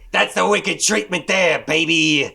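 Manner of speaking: high, loud, drawn-out showman voice; hammed-up announcer. Shown as a demonstration. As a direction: sell it like a hype man. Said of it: "How we do there?".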